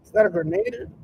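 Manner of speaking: hammed-up high panic; panicked soldier. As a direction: squeal it like a spooked soldier. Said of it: "soldier's like".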